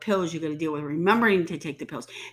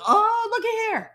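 mock squeal; 5 dB louder than usual. Mocking Mother Nature's return.

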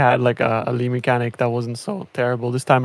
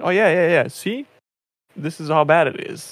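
higher-pitched imitation of people piling on; mock complaining chorus; 4 semitones higher than usual. Player mimics everyone piling on after juicers complain, mock complaining. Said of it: "juicers are complaining, and then everyone's saying".

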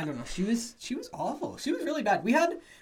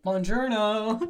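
slow, drawn-out Italian greeting; Italian accent; 4 semitones higher, 4 dB louder, much slower than usual. Pretend. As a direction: stretch it like a proud faker. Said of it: "That's Italian".

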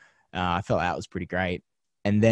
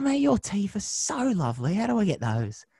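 much higher, breezy put-on voice; pop star impression; 12 semitones higher than usual. Pop star asking the host how to get his teeth, high put-on voice. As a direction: gush like a cheeky pop star. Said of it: "And he's like".

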